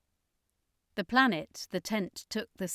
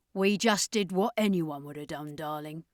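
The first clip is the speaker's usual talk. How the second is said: Carleen; 2 semitones lower than usual. A narrator's reading. Carleen voiced.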